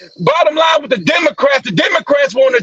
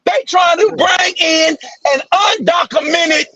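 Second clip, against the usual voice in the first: heated shouting. Real, not acted. Heated political rant.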